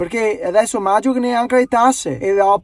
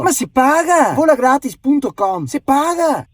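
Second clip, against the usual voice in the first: indignant complaint; 4 semitones higher than usual. Acted. Caller protesting indignantly.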